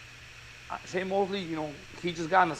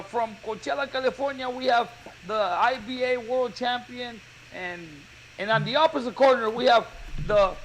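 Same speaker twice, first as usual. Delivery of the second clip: ring announcer; 3 semitones higher than usual. Retold or imitated. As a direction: lightly imitate a boxing announcer reeling off titles. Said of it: "and they announce".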